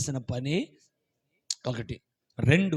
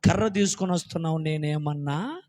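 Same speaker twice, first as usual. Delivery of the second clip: mocking Goliath. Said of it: "వాడు అన్నాడు సులకనకు చూసి".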